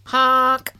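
loud honking goose call. Acted. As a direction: honk like a goose. Goose honks.

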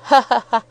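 high, loud "ha, ha, ha"; acted hearty laugh. A narrator's reading. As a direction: laugh out loud at the fond memory. Character laughs over school memories.

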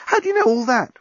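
high, astonished question; amazed. A narrator's reading. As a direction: ask in wonder, pitched well up.

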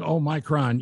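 "Omicron" said as oh-MY-cron; mock the wrong "Omicron" with a long MY; "Omicron" with MY in the middle. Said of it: "if you got somebody going".

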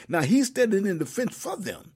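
emphatic, rising sermon delivery; preaching. Real, not acted. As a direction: drive the scripture home like a preacher. Preaches a Bible message.

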